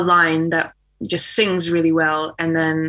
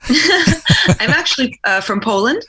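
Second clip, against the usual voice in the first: laughing; 8 semitones higher, 4 dB louder, slower than usual. Real, not acted. Laughing at being taken for American.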